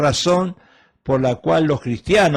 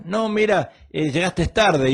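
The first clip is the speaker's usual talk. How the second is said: higher, accusing spouse voice; scolding spouse; 5 semitones higher than usual. Acted. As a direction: play the wife catching him late. Acted spouse quarrel, late arrival. (reproche de esposa, voz más aguda)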